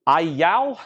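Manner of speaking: country twang slipping out on "Ayal"; country accent. Real, not acted. Auctioneer stumbling over a customer's surname, country accent. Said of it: "That was my country accent coming out".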